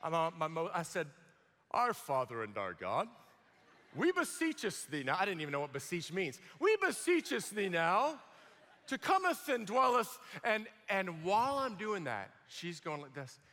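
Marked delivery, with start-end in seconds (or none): 1.7-10.2 a hint of a pompous, churchy prayer tone; religious prayer voice. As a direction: pray stiffly, like in old-fashioned church. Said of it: "I prayed my most religious".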